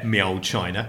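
low, soft mock Cockney. Husband cues the accent story to wife, low mock Cockney. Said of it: "the Cockney thing".

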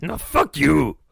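put-on heated French-accented comeback; overexcited retort. Quiz contestant swears at the interviewer, overexcited. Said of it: "I got very excited there".

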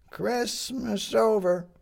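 high, slow headline cry; newsboy calling headlines. Acted.

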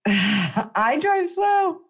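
very slow, high mock mom voice; imitating mom. Mocking her slow-driving mom, very slow. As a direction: drag it out like a cautious mom. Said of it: "my mom drives like".

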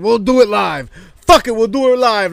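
Bill O'Reilly impression. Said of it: "like the Bill O'Reilly clip".

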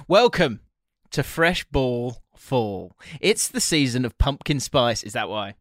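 playful sponsor read, lightly hammed. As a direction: read the ad copy with a grin. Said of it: "Now, let me read".

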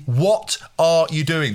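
very slow, word-by-word disbelief; drawn-out exasperated question. Retold or imitated. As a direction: spell out the question slowly, fed up. Repeats the question for emphasis.

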